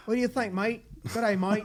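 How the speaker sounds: botched Australian accent, lightly put on; a clumsy try at an Aussie twang; bad Australian accent. Co-host teasing in a bad Australian accent. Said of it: "I really messed up that accent".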